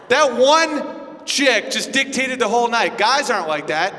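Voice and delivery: normal talking voice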